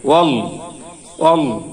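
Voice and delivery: ওয়াল with a thick, heavy L; heavy lam. Shown as a demonstration. Teacher models heavy ওয়াল to students. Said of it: "উচ্চারণটি মোটা হবে, ভারী হবে".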